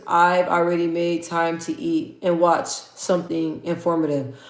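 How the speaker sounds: slow, careful read-out. Real, not acted. Streamer rereading a viewer's answer, deliberately slowed down. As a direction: read it out slowly and evenly. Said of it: "oh, let me slow down".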